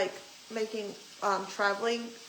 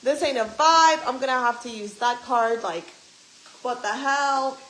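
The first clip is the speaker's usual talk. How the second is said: louder, annoyed rant; pissed off; 6 dB louder than usual. Retold or imitated. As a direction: vent your irritation. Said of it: "I'm pissed".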